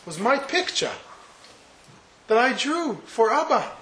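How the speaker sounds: a hint of a tearful little girl; upset little girl. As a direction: play the daughter accusing her brother. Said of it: "And the little girl says".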